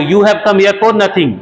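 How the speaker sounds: slow, deliberate teacher read; slow example sentence for learners; slow model sentence. Shown as a demonstration. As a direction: dictate each word slowly. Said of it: "ऐसे ही बोल सकते हैं".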